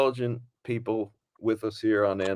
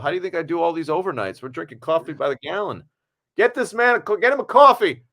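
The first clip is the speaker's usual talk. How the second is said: higher and louder, building to an excited shout; retold excitement; 6 semitones higher, 4 dB louder than usual. Actor urges the crew to bring Tommy coffee, building excitement. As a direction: build your pitch until you're shouting for coffee. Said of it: "I was so excited".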